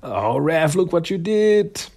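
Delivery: high, reproachful scolding. Retold or imitated. Turtle scolding Raph for making Raza cry, high and reproachful. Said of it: "And like".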